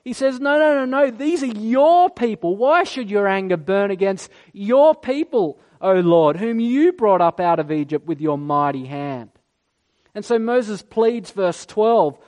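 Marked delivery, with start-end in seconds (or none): 0.4-9.3 a touch of earnest pleading. Retold or imitated. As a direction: beg God not to do it. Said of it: "he pleads God's jealousy back".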